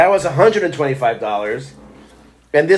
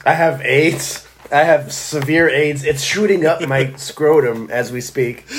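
slow, deadpan confession, played for laughs; mock vulnerable; slower than usual. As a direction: confess it slowly with feigned vulnerability. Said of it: "I'm gonna do the vulnerable".

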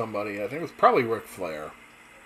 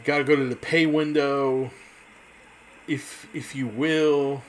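Dusty Rhodes catchphrase; 2 semitones higher than usual. Retold or imitated. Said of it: "he always had his catchphrases".

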